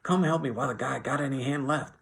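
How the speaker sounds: high, loud desperate shouting; shouted over and over. A narrator's reading. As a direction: shout urgently, pitched high throughout. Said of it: "George shouted over and over".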